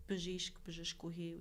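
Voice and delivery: bжishk, bжishkuhi said slowly with Armenian sounds; Armenian words. Shown as a demonstration. Explaining Armenian gender words to a friend, slow careful Armenian. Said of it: "like, for".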